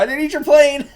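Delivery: high loud words through laughter; real laughing yell; laughing shout. Real, not acted. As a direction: shout it while cracking up. Laughing hard at the scene.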